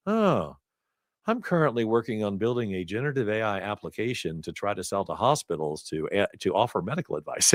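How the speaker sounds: imitating a mildly deadpan doctor; straight-faced, no emotion. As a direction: lightly mimic an emotionless doctor stating his side project. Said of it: "just straight-faced, no emotion".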